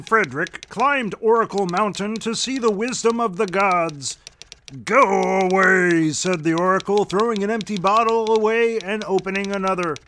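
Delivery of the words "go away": prophetic trance voice. Acted. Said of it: "I don't know where that voice came from".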